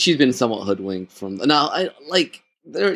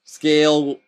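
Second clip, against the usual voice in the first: emboldened writers; 3 semitones higher, 4 dB louder, slower than usual. Retold or imitated. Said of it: "they, they're like".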